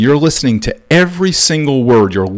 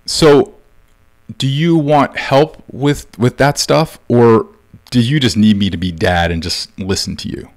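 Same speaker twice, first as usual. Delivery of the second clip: careful scripted delivery. Shown as a demonstration. Dad offers son help or just an ear, careful and deliberate. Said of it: "Say it exactly like this".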